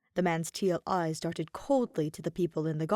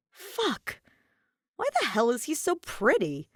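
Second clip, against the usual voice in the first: much higher startled outburst; flustered; 8 semitones higher than usual. A narrator's reading. Aether seeing the Red Queen, high and flustered. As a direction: caught off guard by beauty.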